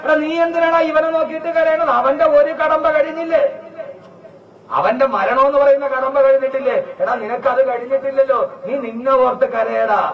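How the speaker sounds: scolding angel. Retold or imitated. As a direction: scold the mourner like a stern angel. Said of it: "അസ്രായീൽ പറയും".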